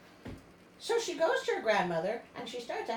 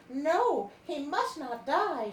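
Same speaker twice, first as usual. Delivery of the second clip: urgent; 5 semitones higher, 5 dB louder, much slower than usual. A narrator's reading. Mermaid's urgent thought in story.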